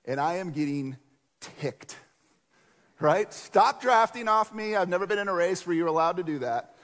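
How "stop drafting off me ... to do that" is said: louder and higher, a mock race-day yell at the riders behind; retold angry yell. Cyclist in a race yelling at riders drafting behind him, annoyed. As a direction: snap at the riders drafting off you. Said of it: "I'm, like, actually yelling at 'em".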